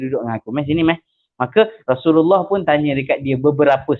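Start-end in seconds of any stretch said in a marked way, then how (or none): 0.0-1.0 gentle invitation. Retold or imitated. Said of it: "Dia tak marah, dia panggil orang tu".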